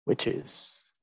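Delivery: put-on old hag. Spooky whispered sign-off word.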